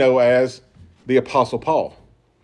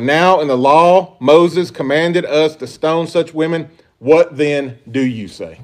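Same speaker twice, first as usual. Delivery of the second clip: slow demanding quote; slower than usual. Retold or imitated. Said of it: "is emphatic in the Greek".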